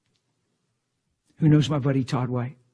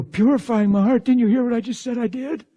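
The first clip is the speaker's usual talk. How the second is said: higher-pitched, incredulous comeback; 9 semitones higher, 3 dB louder than usual. Retold or imitated. Retelling a tearful confessor's reply to praise, incredulous. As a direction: imitate someone protesting in disbelief.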